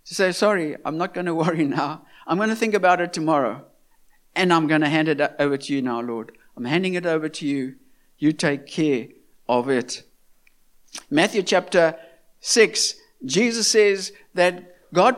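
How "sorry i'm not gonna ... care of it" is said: calm prayer to worry. Retold or imitated. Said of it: "I've learned to say to worry".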